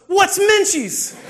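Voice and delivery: high, loud, long-drawn squeal; excited child imitation. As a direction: squeal the question like a thrilled kid. Imitates thrilled daughter's question.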